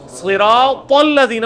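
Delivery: صراط الذین slow, thick t hit hard into الذین; drawn-out صراط with heavy s and booming final t; heavy emphatic t. Shown as a demonstration. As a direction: lean on the heavy t of صراط, slowly. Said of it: "ادھر بھی توئے ہیں".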